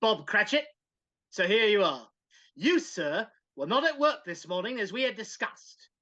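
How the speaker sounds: gruff miserly boss scolding his clerk; stern employer, mildly voiced; cranky Scrooge. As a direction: play the cranky old miser.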